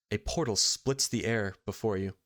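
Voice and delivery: measured storytelling with dramatic pauses; game master narration. A narrator's reading. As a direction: set a tense night scene, phrase by phrase.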